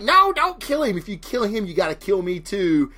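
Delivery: high pleading cry that fades, begging for his life; pleading plea. Retold or imitated. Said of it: "she's like".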